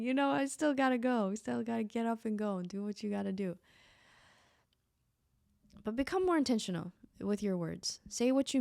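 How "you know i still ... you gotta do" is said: mock pep talk. Tired creator mocks her own perseverance with a hammed-up hustle voice. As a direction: play a cheesy self-motivator. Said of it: "I'm saying".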